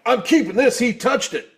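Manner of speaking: high, excited claim; gleeful mock possessiveness. Fan clutching a thrown shirt, gleefully possessive. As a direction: retell a fan gloating over a prize.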